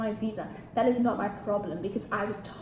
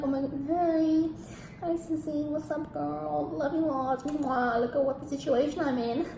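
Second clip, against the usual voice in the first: higher-pitched, gushing phone hello; gushing greeting; 4 semitones higher than usual. Retold or imitated. Greeting her friend on the guy's phone, gushing. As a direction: re-enact an effusive hello to a girlfriend.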